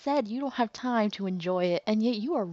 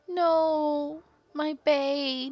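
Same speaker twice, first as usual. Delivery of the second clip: much higher and louder, anguished; anguished cry; 9 semitones higher, 6 dB louder, much slower than usual. Acted. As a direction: cry out in despair. Grieving outburst over sister.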